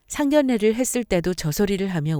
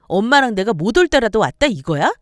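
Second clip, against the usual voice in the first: a raised, higher indignant sister-in-law; indignant retort; 4 semitones higher, 5 dB louder than usual. Acted. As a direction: scoff and snap back, voice up. Sister-in-law bristles at the wife. (높은 톤으로 어이없다는 듯 따지며)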